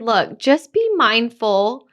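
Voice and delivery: retold calm, careful warning; calm advice. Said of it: "And then I said".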